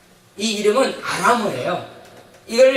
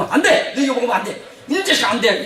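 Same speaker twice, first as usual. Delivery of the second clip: mock parent's firm refusal, pitched up at first; 단호한 부모; 2 semitones higher than usual. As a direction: imitate a parent saying no to a child. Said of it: "부모한테 그러니까 부모". (단호하게 안 된다는 부모 흉내)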